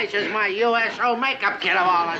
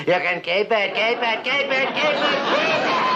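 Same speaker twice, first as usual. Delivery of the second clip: building to a shriek; 4 semitones higher than usual. Acted. Exhausted captain giving away the coffee maker, rising shriek. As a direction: lose it a little more on each keep it.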